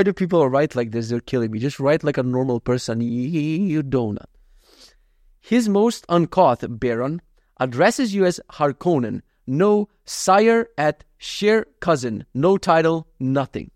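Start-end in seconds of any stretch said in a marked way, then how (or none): 5.4-13.7 slow, holding back laughter; trying not to laugh. Real, not acted. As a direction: read it while stifling a laugh. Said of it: "a try not to laugh challenge".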